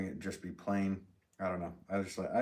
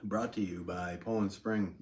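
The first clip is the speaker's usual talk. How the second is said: slow, hammy ad announcer voice; commercial voice; slower than usual. Pretend. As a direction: read it like a cheesy sponsor plug. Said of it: "commercial voice".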